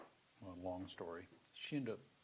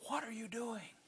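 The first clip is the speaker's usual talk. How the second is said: higher, louder mock yell of a drunk dad; retold yell; 5 dB louder than usual. Drunk dad yelling at his little daughter, mock yell. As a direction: bark it at the child as the drunk father. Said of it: "He yells at her again".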